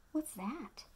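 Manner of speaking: gasp, then a hushed question; surprised gasp. Acted. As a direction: act amazed at the picture.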